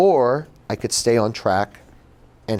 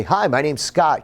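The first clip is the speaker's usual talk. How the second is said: lightly voiced server greeting, pitched up; a hint of waiter cheer, higher than usual; put-on waiter voice; 5 semitones higher than usual. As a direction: greet the table in a slightly put-on voice. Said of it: "I put on this voice".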